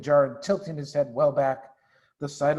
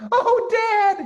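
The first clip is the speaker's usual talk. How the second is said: high, loud thrilled call; a cub calling to his father in delight; excited cry; 8 dB louder than usual. Acted. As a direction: cub crying out to Dad. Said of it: "he cried out".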